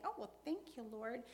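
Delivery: a shallow sing-song thank-you; glib thanks. Retold or imitated. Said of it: "I'm not saying".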